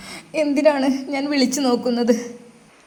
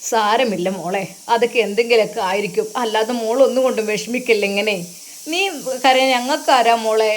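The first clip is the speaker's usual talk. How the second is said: put-on old mother comforting; 4 semitones lower than usual. Mother comforts crying daughter.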